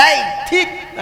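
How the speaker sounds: imitated cutting interjection; cutting retort. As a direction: mimic someone chopping with words. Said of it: "ఖచ్చితంగా నరికేసినట్లు మాట్లాడతాం".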